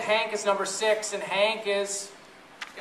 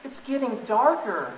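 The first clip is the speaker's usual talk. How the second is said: mouse voice; 5 semitones higher, 4 dB louder, slower than usual. Acted. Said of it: "And Nilly says".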